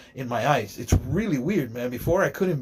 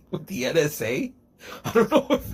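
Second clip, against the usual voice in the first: laughing; 2 semitones higher than usual. Real, not acted. Laughs while saying NSA.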